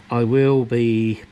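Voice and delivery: slow, halting between hiccups; speaking through hiccups. Real, not acted. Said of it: "oh dear, these hiccups".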